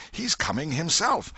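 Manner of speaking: high, loud crowd cry; excited shout. Acted. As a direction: call out to the whole crowd. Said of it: "voices shouted".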